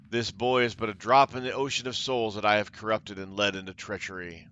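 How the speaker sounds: a hint of a smug smirk. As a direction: toss the blame back, smugly. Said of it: "Xandria smirks".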